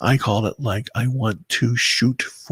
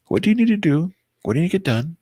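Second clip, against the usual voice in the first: louder, higher, pushing yourself; loud mirror pep talk; 7 semitones higher, 5 dB louder, much faster than usual. Retold or imitated. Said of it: "look at myself in the mirror and say".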